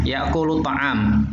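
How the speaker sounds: "Ya'kulu ta'am" said slowly and clearly; slow classroom Arabic; slow model reading. Shown as a demonstration. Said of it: "teacher models sentence".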